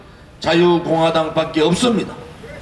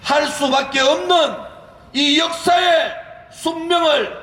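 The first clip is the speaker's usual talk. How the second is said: rising rally fervor; 7 semitones higher than usual. Real, not acted. Rally speech builds to climax.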